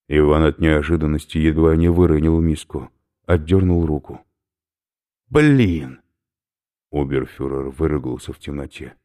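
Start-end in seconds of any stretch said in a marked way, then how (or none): 5.3-6.0 sharp, loud startled yelp; startled curse. Acted. Ivan recoils from the bowl, loud startled yelp. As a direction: jerks back from the slimy bowl.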